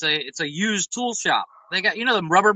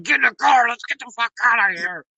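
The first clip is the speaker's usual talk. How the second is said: retold angry yell; 3 semitones higher than usual. Dad hustling his son out of Walmart, imitated exasperated yell. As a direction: act out an exasperated dad's order. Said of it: "as I'm yelling".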